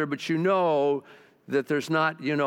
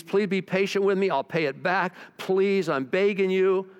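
higher-pitched begging, lightly acted; mild pleading; 3 semitones higher than usual. Debtor begging the king for patience, mildly pleading. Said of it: "begged him to be patient with him".

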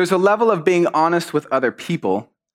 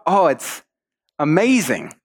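lightly acted feigned admiration; polite lie; 2 semitones higher, slower than usual. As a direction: gush a little, just to be polite. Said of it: "a level of politeness".

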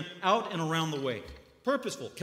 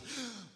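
audience gasp; 6 semitones higher, 10 dB quieter than usual. Retold or imitated. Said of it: "The, the audience is".

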